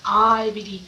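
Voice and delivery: loud, imitated chorus of believers; hammed-up profession of belief; mock declaration. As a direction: parrot the creed loudly, like everybody else. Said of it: "and everybody says".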